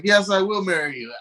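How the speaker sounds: high put-on woman's voice; mock bride. Singer accepting a proposal onstage, high mock-romantic voice.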